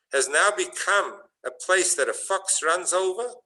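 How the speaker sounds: the rabbis lamenting the ruined holy place; anguished protest. Retold or imitated. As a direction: plead the loss with rising intensity. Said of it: "So they said".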